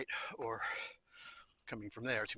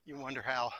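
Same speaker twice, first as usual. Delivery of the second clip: coughing after swallowing a bug; just swallowed a bug; 14 dB louder than usual. Real, not acted. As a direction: talk through a bug in the throat. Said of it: "think I swallowed a bug".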